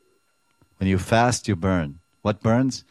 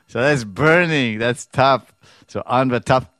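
emphatic teaching; 5 semitones higher, 7 dB louder than usual. Real, not acted. Preacher stressing the meaning of tap, louder and higher. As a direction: drive the point home. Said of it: "emphatic explanation of tap".

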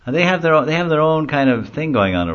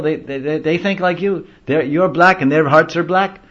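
high, playful jab; teasing charioteer; 9 semitones higher, 5 dB louder than usual. Retold or imitated. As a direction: tease the Lord like a jester. Charioteer teases Jagannath.

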